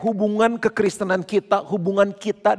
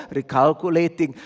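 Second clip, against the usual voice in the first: robotic GPS voice; 4 semitones lower than usual. Retold or imitated. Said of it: "nadanya gitu aja".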